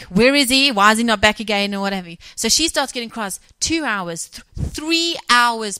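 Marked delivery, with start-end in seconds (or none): 0.0-1.7 loud, anxious calling out; panicked where is he; scared worried wife. Retold or imitated. Wife fearing for missing husband, loud and anxious.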